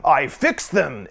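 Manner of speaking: low, drawn-out gravelly voice; slow, ominous recorded-message rasp. A narrator's reading. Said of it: "it says quickly in a gravelly voice".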